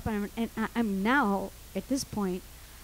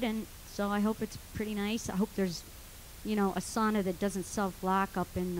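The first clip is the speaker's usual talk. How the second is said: soft, low surrender; resigned last words; 3 semitones lower, 9 dB quieter than usual. Retold or imitated. Trapped woman making peace with dying in the sauna, resigned. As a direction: give up quietly, as if saying a final prayer. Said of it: "I kinda said my".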